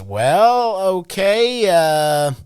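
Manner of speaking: imitating the boss. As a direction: let him stall before taking charge. Retelling Jeff's firm rephrase.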